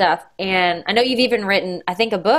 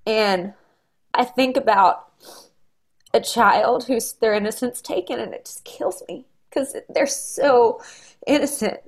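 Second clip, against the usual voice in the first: tearful, voice breaking through the words; real crying. Real, not acted. Mom on a podcast, fighting tears as she talks, crying. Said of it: "I'm sorry I'm crying".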